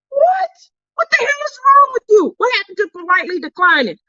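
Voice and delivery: high, incredulous outburst; hammed-up indignation, pitch leaping on the first word; mock outrage. Friend grabbed the offered snack she expected declined, mock outrage.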